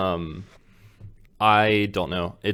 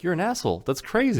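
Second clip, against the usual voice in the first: outraged; 8 semitones higher, faster than usual. Retold or imitated. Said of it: "And everyone's like".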